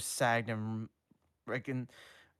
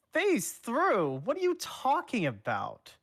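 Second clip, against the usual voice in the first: much higher, louder panicked voice; nervous squeak; 14 semitones higher, 8 dB louder than usual. Acted. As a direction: cover panic with a squeaky question. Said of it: "trying to hide his nerves".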